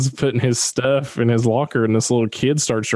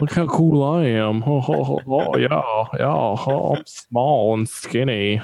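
mocking show-off. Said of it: "Dalton's over here, like, doing cartwheels".

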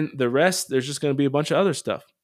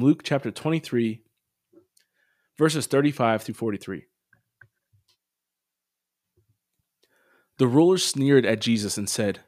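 measured, even gospel read with pauses; scripture reading. Acted. Host reading Sunday gospel to listeners, calm measured lector read.

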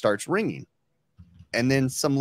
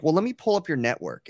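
lightly voiced little old lady, higher; hint of a sweet support lady, pitched up; Marianne; 5 semitones higher than usual. Retelling support lady helping caller, lightly voiced old lady. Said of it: "imagine you're little old Marianne".

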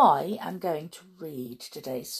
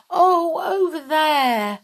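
high, loud exclamation; crying out; 9 semitones higher, 8 dB louder, slower than usual. Acted. Miss Bianca spotting the kitten for Bernard, crying out high and loud. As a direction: call out a sudden discovery. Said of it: "cried Miss Bianca".

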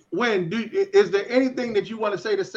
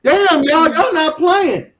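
high, loud outburst, drawn out at the end; loud exclamation; 10 semitones higher, 11 dB louder, much slower than usual. Real, not acted. Host reacts to another caller coming in, loud exclamation. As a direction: cry out, stretching the last words.

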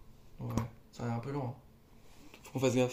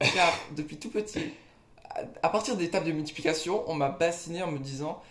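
ranting; 3 dB louder than usual. Real, not acted. Rant about maths drummed in.

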